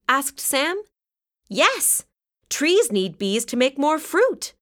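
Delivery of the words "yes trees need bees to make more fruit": high bright answer with a smile; smiling. A narrator's reading. Violet answering Sam about trees, smiling reply. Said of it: "smiled Violet".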